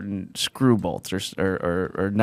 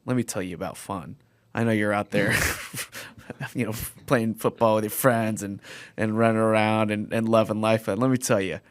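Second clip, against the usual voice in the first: mock-earnest, softer advice voice; advice to younger self; 6 dB quieter than usual. Older self tells younger self about fun, soft mock-earnest advice. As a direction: drop the volume and confide it like life wisdom. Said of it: "imagine just telling our, our, uh, our younger selves".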